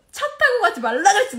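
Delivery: high, loud mock telling-off; retold scolding. Husband scolding wife over taking the car, retold scolding. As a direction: imitate a husband's loud I-told-you-so.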